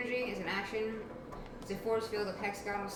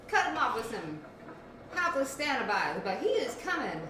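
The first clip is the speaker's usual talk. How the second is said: urgent announcement; 6 semitones higher, 4 dB louder than usual. Acted. Character announces the minotaur danger.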